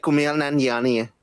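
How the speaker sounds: Kumail Nanjiani in its native accent; native-accented version of the name; real accent. Shown as a demonstration. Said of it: "the real accent would be like".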